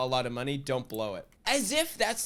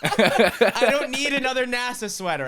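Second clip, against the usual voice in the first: laughing; 8 semitones higher, 5 dB louder than usual. Retold or imitated. Mocking rich kid, laughing.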